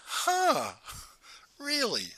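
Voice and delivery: high-pitched, put-on "huh, really"; mock surprise. Forum leader hearing his story, surprised. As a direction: imitate her taken aback, voice lifted high.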